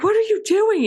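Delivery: very high, alarmed, panicked cry. Recapping a scene where Laura drives up on the begging boy, imitating someone panicking. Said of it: "And she's panicking".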